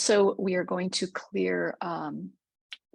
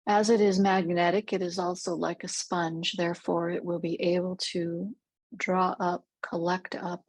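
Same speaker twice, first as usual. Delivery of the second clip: measured meditation voice with long pauses; guided meditation. Real, not acted. Guide leads listeners through a rose clearing visualization, calm meditative delivery. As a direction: guide gently, leaving space between phrases.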